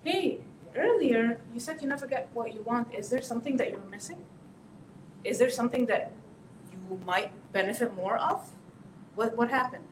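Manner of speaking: soft, caring check-in; gentle follow-up. Shown as a demonstration. Parent gently following up with the teen, caring. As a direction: ask kindly, drawing them out. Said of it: "I'm going to follow up on that".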